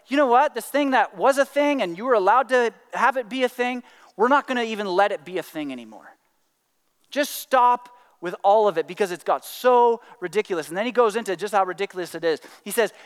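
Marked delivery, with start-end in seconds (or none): 0.0-10.7 laying down the law, fed up; mildly frustrated ruling. Acted. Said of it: "Jesus is so frustrated".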